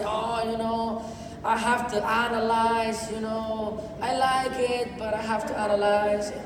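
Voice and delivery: slow, dragging imitation of a reluctant boyfriend; mock his dithering, slowly; hesitant. Imitating the boyfriend who has to analyze, slow hesitation.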